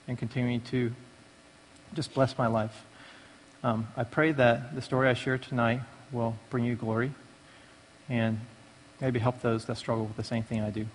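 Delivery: prayer. Real, not acted. Man thanking God before sharing his testimony, softly prayerful. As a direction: pray quietly, feeling for the next words.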